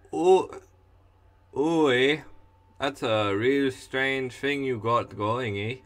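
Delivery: hammed-up Canadian accent; lightly put-on Canadian with lilting interjections. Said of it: "I can do a better Canadian".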